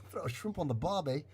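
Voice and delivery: quick, badly faked Australian accent; attempted Australian accent. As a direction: copy the Australian line, not quite getting it. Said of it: "how do I talk Aust-, Australian again".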